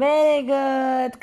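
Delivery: slow, loud and high praise; excited praise. Real, not acted. Praising child's correct answer.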